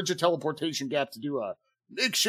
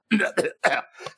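coughing; 2 semitones higher than usual. Acted. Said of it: "making my allergies act up".

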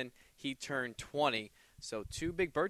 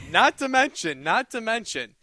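loud burst; 6 semitones higher, 8 dB louder than usual. Real, not acted. Bursting out in laughter story.

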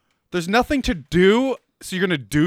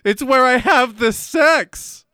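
hammed-up seducer; 5 semitones higher, 4 dB louder, slower than usual.

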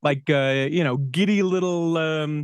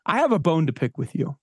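assertive; 3 semitones higher than usual. Retold or imitated. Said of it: "I very assertively said this".

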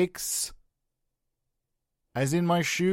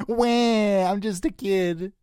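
put-on child crying; 5 semitones higher, slower than usual. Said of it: "Play a child crying".

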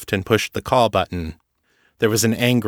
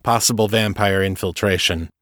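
usual speaking voice

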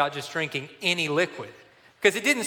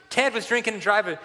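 higher-pitched, shocked echo; alarmed disbelief; 5 semitones higher than usual. Retold or imitated. Leader repeating what the boy reported, higher and alarmed. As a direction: repeat the accusation, aghast. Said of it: "noticeably alarmed".

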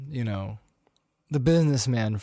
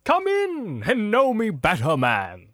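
drawn-out high call, falling at the end; a grand, welcoming spirit; exclaiming ghost; 7 semitones higher, slower than usual. Acted. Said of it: "exclaimed the ghost".

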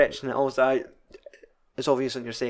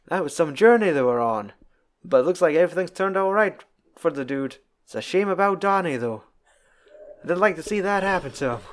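higher, lightly voiced Texan cowboy musing; Texan cowboy accent; 5 semitones higher than usual. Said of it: "that right Texan accent".

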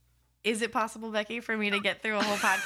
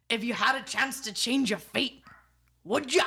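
put-on Scottish accent; 3 semitones higher than usual. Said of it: "So I'm gonna do it for you now".

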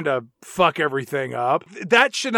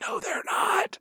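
whispered; 6 dB quieter, slower than usual. Real, not acted. Whispered aside.

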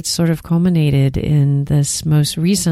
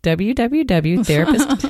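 slow, drawn-out Texan W W W, higher; 5 semitones higher than usual. Shown as a demonstration. Host laughing at her own accent, slow Texan drawl. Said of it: "It comes out".

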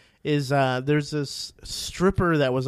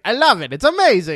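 gushing teacher; 6 semitones higher, 6 dB louder than usual. Retold or imitated. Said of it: "her teacher's like".

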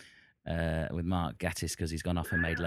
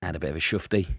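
louder, hammed-up Cockney wheeler-dealer; cheeky Cockney geezer, louder and a bit self-conscious; put-on Cockney; 10 dB louder than usual. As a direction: play the London market trader in Cockney. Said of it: "I don't like talking like this".

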